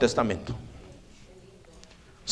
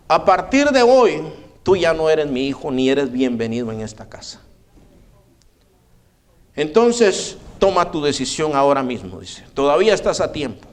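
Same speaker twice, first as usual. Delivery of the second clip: stern disowning. Retold or imitated. Mother disowning son.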